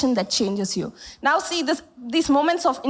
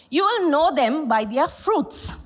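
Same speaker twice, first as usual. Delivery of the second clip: slow, each word weighed; slow solemn scripture quote; slower than usual. Acted. Preacher quoting Jesus to church, slow and solemn. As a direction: lay out the verse slowly and solemnly.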